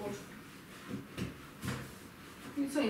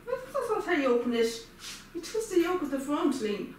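exasperated correction; 3 semitones higher than usual. Real, not acted. Telling a companion how to twist the spray open, exasperated. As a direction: correct them with real impatience.

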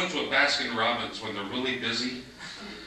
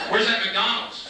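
mock question; 10 semitones higher, slower than usual. Asking the local for directions.

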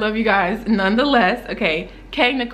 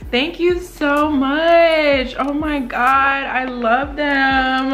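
grateful; 4 semitones higher, 4 dB louder, slower than usual. Real, not acted. Grateful after tears.

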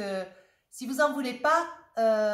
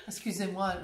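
laughing; 3 semitones lower than usual. Real, not acted. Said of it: "je ris parce que c'est".

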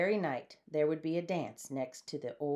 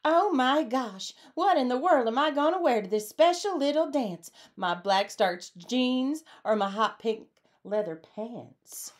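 wailing; 6 semitones higher, 5 dB louder than usual. A narrator's reading. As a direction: wail it out in a big panic. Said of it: "Reba Sue started to wail".

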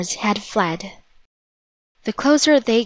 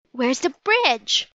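alarmed cry; 5 semitones higher, slower than usual. A narrator's reading. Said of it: "cried Annie".

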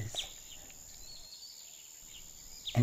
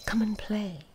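breathy whisper, voice gone; 7 semitones higher than usual. A narrator's reading. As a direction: whisper it like a tired old tree. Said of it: "she whispered".

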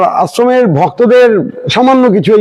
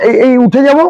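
cathedral echo; 3 semitones higher than usual. Shown as a demonstration. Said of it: "ইকো হবে".

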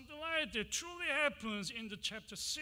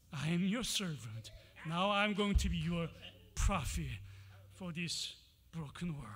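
earnest Isaiah; 3 semitones lower, 6 dB louder than usual. Acted. Isaiah answering God in Hebrew, earnest plea. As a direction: offer yourself as servant. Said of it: "In Hebrew, he's like".

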